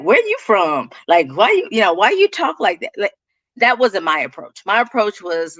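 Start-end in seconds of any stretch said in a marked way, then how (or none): 0.0-2.9 imitating blunt, prying questioners; mock a rude stranger's questions, only mildly put on; rude questioning. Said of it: "but they do it rudely".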